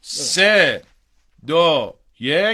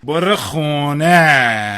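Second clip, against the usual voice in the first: stern command; 3 dB louder, much slower than usual. Acted. Stern man sends girl home.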